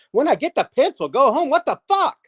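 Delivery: high, loud burst of bafflement; acted outburst of confusion, pitch shooting up; exasperated self-talk. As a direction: blurt it out as if totally stumped. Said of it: "I'm talking to myself".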